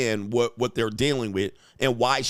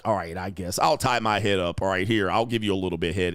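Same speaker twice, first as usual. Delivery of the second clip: low, grudging mock consent; reluctant wife; 7 semitones lower than usual. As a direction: agree as if it's a chore. Imitates unwilling wife giving in.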